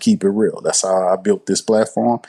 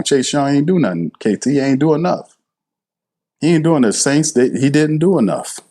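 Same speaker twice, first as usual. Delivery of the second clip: higher pitched, heated protest; animated rant; 5 semitones higher than usual. Real, not acted. Host firing back at a viewer's comment, heated and higher. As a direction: fire back at the critic, worked up. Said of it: "y'all seeing me get animated here".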